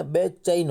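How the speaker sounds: बेचैन drawn out, ai vowel on चै spelled out; slow, clear बेचैन with the ai sound; धीमा स्पष्ट उच्चारण बेचैन; careful pronunciation. Shown as a demonstration. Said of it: "चे के ऊपर डबल मात्रा है".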